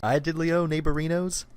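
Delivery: high, chirpy goofy-neighbor greeting; cheery cartoon neighbor. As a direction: bounce it out like a sing-song neighbor.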